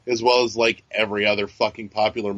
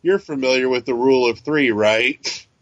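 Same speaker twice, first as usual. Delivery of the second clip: sarcastic; 3 dB louder than usual. Retold or imitated. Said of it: "it chimes in in beautiful sarcasm".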